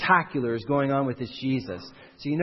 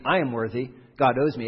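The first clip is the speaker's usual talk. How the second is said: louder, pushier entitled demand; a firmer, louder entitled claim; 4 dB louder than usual. Shown as a demonstration. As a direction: insist God owes you, leaning on GOD. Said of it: "It doesn't have to be".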